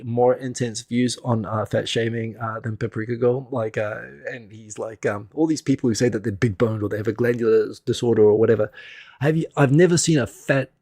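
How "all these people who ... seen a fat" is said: lightly put-on South African accent; a hint of South African rugby mate. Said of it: "he says in the South African voice".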